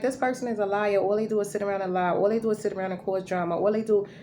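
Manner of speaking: exasperated rant. Retold or imitated. Mocking how others judge.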